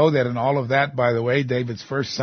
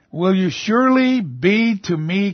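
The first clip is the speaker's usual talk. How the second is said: pained accusation; 5 semitones higher, 3 dB louder than usual. Acted. Voicing Jeremiah's accusation to God.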